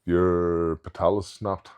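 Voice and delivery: slow, matter-of-fact statement; slow blunt quote. Retold or imitated. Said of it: "he just goes".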